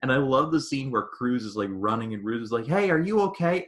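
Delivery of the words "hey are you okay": high-pitched mock concerned call. Pilot calling to a downed comrade, urgent. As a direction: call out, acting the concerned wingman.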